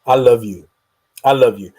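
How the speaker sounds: loud, low, heartfelt declaration; fervent declaration. Real, not acted. Host loudly declares love to his listeners. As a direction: proclaim it with full chest. Emphatic declaration after moaning.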